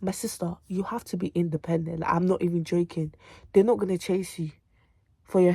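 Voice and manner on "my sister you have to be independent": a light African accent on "you have to be independent", a bit softer; a hint of an African accent, calling her "my sister". Shown as a demonstration. Telling college students to be independent, light African accent. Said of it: "let me even say it in African voice".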